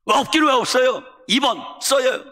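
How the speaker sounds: wife shouting down her husband's despair, high and loud; wife scolding. Retold or imitated. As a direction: push him hard, no excuses.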